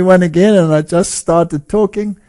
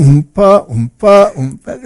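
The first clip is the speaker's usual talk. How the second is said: oompa band imitation; 3 semitones higher, 4 dB louder than usual. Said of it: "the Oompa band was going".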